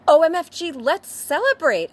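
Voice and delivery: high, loud squeal of delight; giddy party squeal; gasping excitement. Acted. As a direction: burst out thrilled, way up high. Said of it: "gasped Willow".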